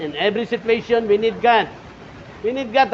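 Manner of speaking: loud, high preaching cry; preaching climax. Acted. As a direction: proclaim it to the whole church. Preaching at full force. (malakas na pangangaral)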